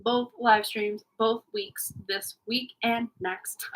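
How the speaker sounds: slow flat robot voice. Real, not acted. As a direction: spell it out like a robot. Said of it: "Now I'm sounding like a robot".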